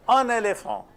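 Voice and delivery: firm model "Un éléphant", N joined to the vowel; liaison demonstrated. Shown as a demonstration. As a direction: say "Un éléphant" as "un-nay-lay-fon". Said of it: "When there is a liaison".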